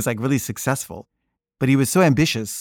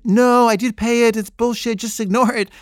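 dismissive dad; 10 semitones higher, 3 dB louder than usual. Retold or imitated. Dad brushing off the calls.

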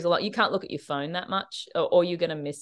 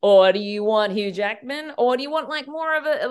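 imitated Australian accent. Actor offering Australian options at his audition, in accent. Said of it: "and then in accent".

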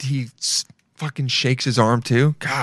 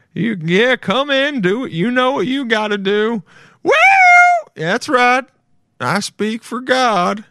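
higher-pitched impression of a zealous preacher; 10 semitones higher, 3 dB louder than usual. Streamer mimicking a preacher with his parish, hammed-up and higher. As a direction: imitate a preacher welcoming people in, high and drawn out at the end. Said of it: "He's like".

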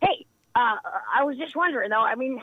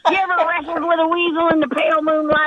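laughing; 4 semitones higher than usual. Acted. Laughing flirt build.

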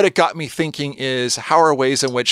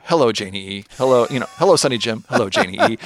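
imitating Cooper's greeting; much faster than usual. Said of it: "just the way he says".

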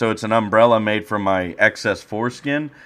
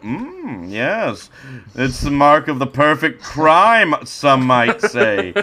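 smug mastermind voice; 5 semitones higher, 4 dB louder, slower than usual. Acted. Smug villain voice, slow end.

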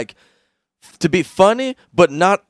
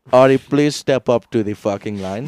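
mock Indian accent; 3 semitones lower than usual. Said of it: "Indian Nazi, he's like".

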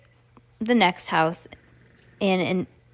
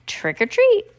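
higher, louder title call; excited title; 13 semitones higher, 5 dB louder than usual. Acted. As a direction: sing out the title. Chapter title.

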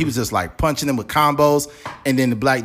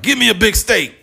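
gruff conservative; 8 semitones higher than usual. Pretend. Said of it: "conservatives be like".

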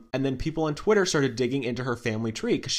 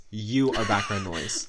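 slow teasing; 4 semitones lower than usual. Acted. Repeats tease slower, lower.

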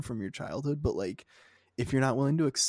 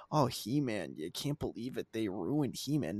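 whiny fan; 3 dB quieter than usual. Retold or imitated. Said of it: "it's annoying".

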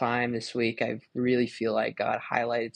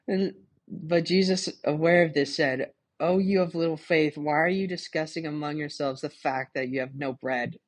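laughing while reading; 4 semitones higher than usual. Real, not acted. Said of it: "a weirdo laughing".

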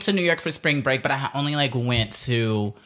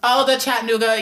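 surprised; 10 semitones higher, 4 dB louder than usual. Real, not acted. Sudden recognition.

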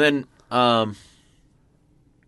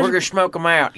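Bush impression; 4 semitones higher than usual. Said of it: "James would always go".

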